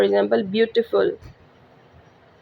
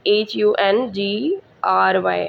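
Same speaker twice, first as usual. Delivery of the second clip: spelling out letters; slower than usual. Shown as a demonstration. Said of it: "हंगरी".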